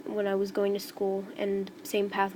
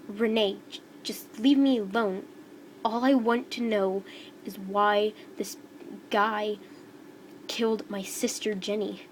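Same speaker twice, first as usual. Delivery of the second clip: louder, mildly angry demand; upset outburst; 3 dB louder than usual. Acted. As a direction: push back at them, voice raised. Defiant girl confronts her sister's killer.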